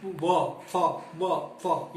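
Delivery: व and फ said with teeth on the lip; touch the teeth to the lip for व and फ; labiodental sounds. Shown as a demonstration. Teacher demonstrating teeth-and-lip sounds to students, clearly articulated. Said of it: "ये देखिए यहाँ पे lips".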